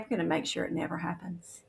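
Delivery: a hushed warning meant to scare; soft, whispered menace; menacing whisper. Retold or imitated. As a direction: whisper the threat, cold and close. Politicians threaten the young man.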